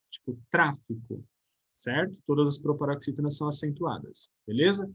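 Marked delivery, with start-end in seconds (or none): 0.5-1.2 "tráfico" with a drawn-out, stressed TRÁ; "tráfico" as TRÁ-fi-co, last two syllables falling away; stress on antepenultimate syllable. Shown as a demonstration. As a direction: slowly hit the first syllable of "tráfico". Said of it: "os proparoxítonos na antepenúltima sílaba".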